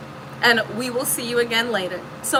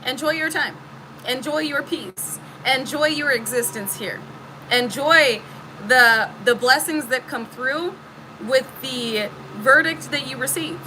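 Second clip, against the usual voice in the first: calm message. Retold or imitated. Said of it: "Spirit is saying".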